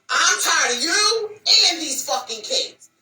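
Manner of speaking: high, loud, slow crying yell; tearful shout. Acted. Fed-up wife yelling at husband and kids, crying shout. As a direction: wail it like you're at breaking point.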